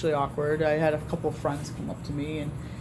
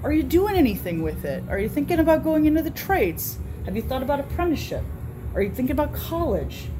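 re-enacted pep talk in a higher pitch; friendly encouragement; 7 semitones higher than usual. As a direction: coax a shy kid with lifted, interested questions. Retells encouraging the kid.

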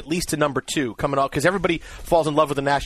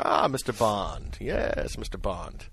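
slow, low, menacing Bond villain purr; Doctor No impression; 7 semitones lower, 8 dB quieter, much slower than usual. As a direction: drop low and slow like a villain stroking a white cat. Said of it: "you're like Doctor No from James Bond".

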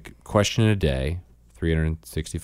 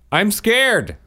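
put-on squeaky child's voice; high little-girl "I'm scared"; 5 dB louder than usual. Mom quoting daughter's answer, squeaky child voice. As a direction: play the toddler, small and high.

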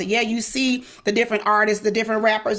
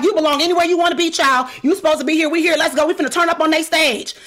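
put-on fast, higher, louder pep talk to the girls; hype-up rally; 5 semitones higher, 3 dB louder, faster than usual. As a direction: fire them up like a coach. Hyping up her dancers.

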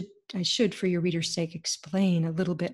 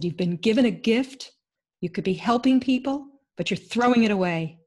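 a firmer, louder scolding healer; louder retold reprimand; stern rebuke; 3 semitones higher, 5 dB louder than usual. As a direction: scold her for wasting the gift. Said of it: "she glared at me".

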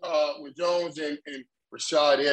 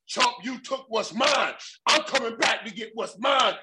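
mock taunt; 8 semitones higher than usual. Retold Diaz taunting McGregor.

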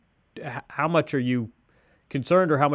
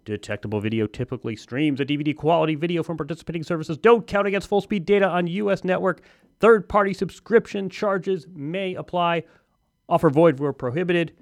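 higher, rapid-fire fine print; infomercial voice; 4 semitones higher than usual. Pretend. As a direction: rattle off the disclaimers like an ad. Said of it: "I have always wanted to do infomercial voice".

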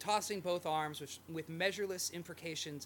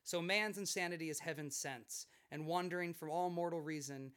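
dramatic reading. Acted. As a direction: read it like a novel passage. Reads literary quote aloud.

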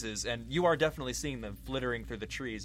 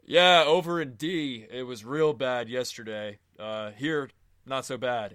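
louder, called across the clearing; calling over; 8 dB louder than usual. Acted. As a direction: shout it over from a distance. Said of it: "Stevens calls over and says".

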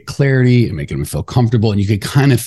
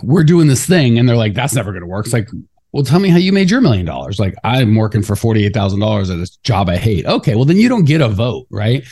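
fired-up rant with lively mimicked quotes; a little ranty. Real, not acted. Host argues against broke people's judgment, a little ranty. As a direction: get passionately worked up, arguing back. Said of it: "I got a little ranty there".

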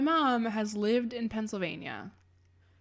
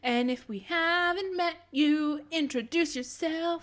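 inviting; 8 semitones higher, slower than usual. Real, not acted. Inviting listeners to show.

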